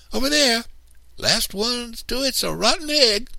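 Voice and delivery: put-on a girl daring her brothers to race; playful yell. A narrator's reading. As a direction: yell the race dare and take off. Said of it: "I yelled".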